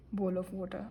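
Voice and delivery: says "bowl of water" with a British lilt, long round "bowl"; "water" in British English, the t crisp and no r; British accent. Real, not acted. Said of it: "why did I say it in a very British accent?".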